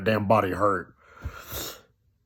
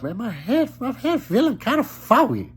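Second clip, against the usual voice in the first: groggy self-quote; 12 semitones higher than usual. Retold or imitated. Groggy on break, head foggy.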